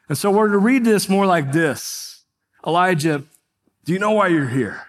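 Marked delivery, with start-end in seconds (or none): 2.7-4.8 gentle, caring question; compassionate tone. Shown as a demonstration. Preacher reading God's question to Elijah, compassionate. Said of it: "this more compassionate tone".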